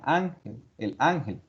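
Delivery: "ángel" leaning on ÁN, dropping on gel; weight the opening A of "ángel" each time; stress on first syllable. Shown as a demonstration. Teacher drilling the tonic example, first-syllable stress. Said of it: "Ángel es tónica".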